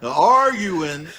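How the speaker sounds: "Arguing" drawn out with a swell on the start; mimicked mispronunciation. Co-host repeats the man's botched word, mocking mimicry. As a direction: parrot the botched "Arguing" slowly. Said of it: "exactly the way he said it".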